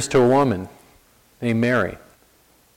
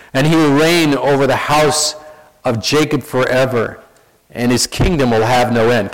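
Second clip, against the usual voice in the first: scripture reading. Acted. Preacher reading the angel's message aloud, steady and clear. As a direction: read the angel's words to the congregation. Reads Luke aloud to congregation.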